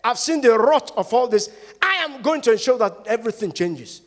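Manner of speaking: loud, high vow of resolve; resolute declaration. Pretend. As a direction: declare it like a promise. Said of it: "if you choose to say".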